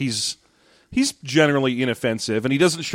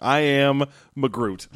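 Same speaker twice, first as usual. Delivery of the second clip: bad Scottish accent; slower than usual. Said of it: "Groot's Scottish cousin, Magroot".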